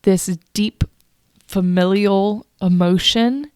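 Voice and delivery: acted-out confused outburst; bewildered human side. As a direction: voice your baffled self, with emphasis. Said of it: "my humans on one side going".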